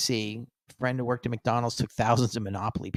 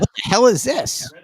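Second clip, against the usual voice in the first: hammed-up shocked exclamation, high and loud; mock outrage; 10 semitones higher, 7 dB louder than usual. Imagined cashier halting the line over a card, mock outrage. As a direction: burst out in pretend disbelief.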